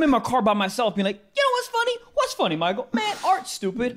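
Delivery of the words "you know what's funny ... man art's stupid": high-pitched comic rambling; mock self-talk. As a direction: play losing it alone, voice pitched up. Acts out talking to himself in car.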